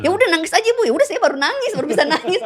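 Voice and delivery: high, laughing retelling. Real, not acted. Telling the host she finally cried, high and laughing. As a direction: chuckle through the words.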